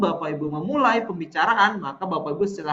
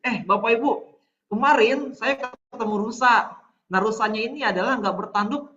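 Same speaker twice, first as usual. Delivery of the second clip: higher-pitched, playful demo of bantering; joking; 5 semitones higher than usual. Shown as a demonstration. Trainer demonstrates kidding participants about a deer, joking. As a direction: chat to the room as if setting up a joke. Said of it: "Atau misalkan lagi bercanda Bapak Ibu".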